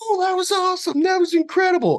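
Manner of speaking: play-acted very high shriek of delight. Retelling jumping out of the water after a raft tipped them, retelling screaming with delight. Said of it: "I'm screaming with delight".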